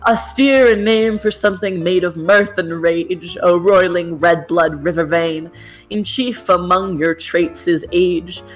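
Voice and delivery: grand, measured poetry reading; poem recital. Acted. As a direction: declaim it like an ode to a river.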